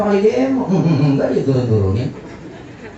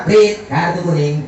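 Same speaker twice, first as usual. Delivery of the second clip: slow whistle-blast call, mock stern; angry referee; slower than usual. Referee warns a rule-breaking player, mock angry. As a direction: play a referee penalising a foul. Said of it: "wasit marah".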